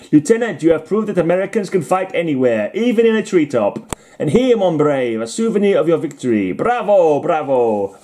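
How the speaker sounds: wobbly mock French accent, high-pitched praise; hammy, high French accent wandering towards Italian; attempted French accent. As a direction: congratulate grandly in a badly faked French accent. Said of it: "It was supposed to be French accent".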